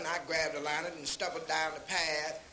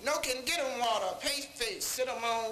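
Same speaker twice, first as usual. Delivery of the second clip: wife's punchline; 5 semitones higher than usual. Retold or imitated. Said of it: "She said".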